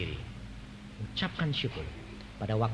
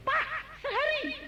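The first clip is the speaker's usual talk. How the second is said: high laughing report; joyful report. Retold or imitated. Woman reporting answered prayer, high joyful laugh. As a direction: burst out the good news.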